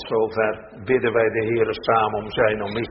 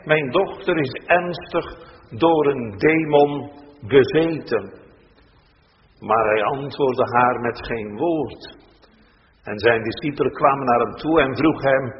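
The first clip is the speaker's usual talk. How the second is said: measured, solemn Bible reading from the pulpit; scripture reading; 3 semitones higher than usual. Acted. Minister reads the gospel passage to the congregation, solemn and measured.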